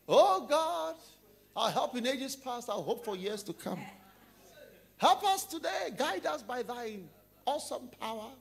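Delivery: high, loud showy prayer leading the office; pious prayer voice. Acted. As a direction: pray like a showy saint.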